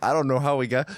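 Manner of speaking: laughing. Real, not acted. Echoing cohost while laughing.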